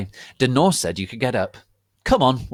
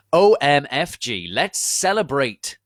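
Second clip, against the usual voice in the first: excited gasp; 6 semitones higher, 6 dB louder than usual. A narrator's reading. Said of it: "gasped Willow".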